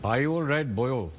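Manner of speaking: an attempted Pakistani accent. Shown as a demonstration. Guest tries it for the host's challenge, attempted Pakistani accent. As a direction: try the line in a Pakistani accent. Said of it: "I'm gonna try the Pakistani".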